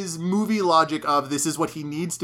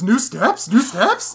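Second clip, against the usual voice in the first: announcer; 7 semitones higher, 7 dB louder, slower than usual. Acted. Mimicking the newspaper headline.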